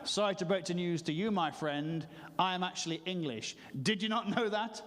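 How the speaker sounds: mildly smug, acted correction; gently gloating mock-British politeness. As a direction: break it to them with self-satisfaction. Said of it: "I became quite smug and British".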